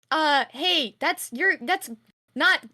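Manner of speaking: put-on high, loud, anxious questions to the kid; a frightened guardian checking on the child; worried calling. Still alarmed at the child.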